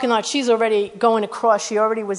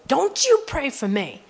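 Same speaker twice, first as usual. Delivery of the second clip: mock yell at normal volume, higher pitch; retold angry yell; 5 semitones higher than usual. Old woman turning on a stranger who touched her shoulder, retold angry yell. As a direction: imitate a woman snapping back, pitched up. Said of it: "she turned around yelling at me".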